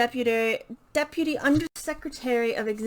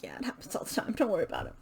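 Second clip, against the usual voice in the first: casual guard; 5 semitones lower, 7 dB quieter, much faster than usual. Retold or imitated. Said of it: "the guard's like".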